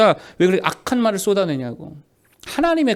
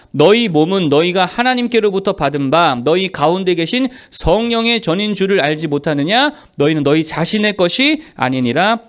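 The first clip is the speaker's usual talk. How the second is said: loud, measured Bible reading; firm read-aloud of scripture; 3 dB louder than usual. Acted. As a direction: read the verse out for a congregation. Leads congregational scripture reading.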